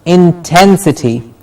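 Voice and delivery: "Intensity" with weight on TEN; in-TEN-si-ty, strong middle; stress on TEN. Shown as a demonstration. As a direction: say "Intensity" hitting the second syllable. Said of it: "The ten gets the stress".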